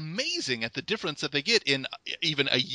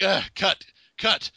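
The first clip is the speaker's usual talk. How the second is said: exasperated; 6 semitones higher, 3 dB louder than usual. Retold or imitated. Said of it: "I'm like".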